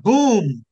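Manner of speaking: imitated explosion boom; boom sound effect. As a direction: punch out a loud boom. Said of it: "made this sound".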